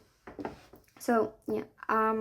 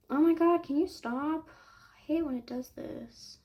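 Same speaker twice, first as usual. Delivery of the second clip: higher, exasperated outburst; 4 semitones higher than usual. Real, not acted. Vlogger fed up with a glitch while making a page, exasperated. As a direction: scold it in frustration. Scolding the thing she's editing.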